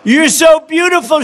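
lightly voiced doting woman; admiring woman. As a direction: gush over the pretty snake. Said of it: "she cried".

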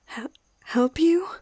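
stammered, slow, rising question; frightened disbelief. Acted. Vet asked for help by her attacker, frightened disbelief.

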